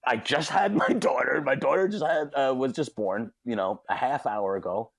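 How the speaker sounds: high, pumped-up apology; mock frenzied sorry; retold frantic apology. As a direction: apologize while still wired. Apologizing to deli guys.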